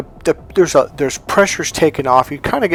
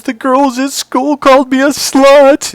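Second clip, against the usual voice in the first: put-on high, loud, drawn-out wail as a crying teen; imitated bawling; 13 semitones higher, 7 dB louder, slower than usual. Goddaughter in tears tells godfather about school, mock bawling. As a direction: wail it slowly, imitating her upset. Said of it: "and she's just bawling".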